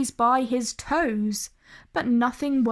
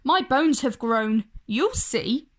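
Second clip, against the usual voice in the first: stubborn. Acted. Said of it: "said Desmond stubbornly".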